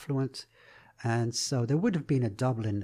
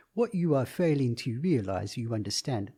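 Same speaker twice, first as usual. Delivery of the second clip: lightly voiced officious police officer, over-enunciated; overly precise policeman; 3 dB louder than usual. Actor demonstrates the farce policeman trope, overly precise. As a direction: pick out each word with fussy precision. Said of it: "with an overly precise way of talking".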